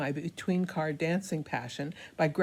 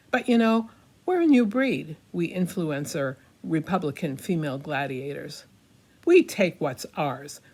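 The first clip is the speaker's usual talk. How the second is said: hammy stage actor; 4 dB louder than usual. Acted. Rousing boastful finale.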